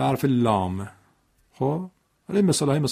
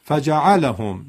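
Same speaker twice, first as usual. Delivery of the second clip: فجعلهم slow and joined, no lift on ف; correct reading; 4 dB louder, much slower than usual. Shown as a demonstration. Teacher repeats the correct model to fix it, slowly. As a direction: say فجعلهم slowly as one word. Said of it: "پس بگید".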